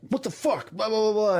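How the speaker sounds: imitating the boss, high and incredulous; outraged disbelief. Retelling the trainer quitting, boss's high shocked outburst.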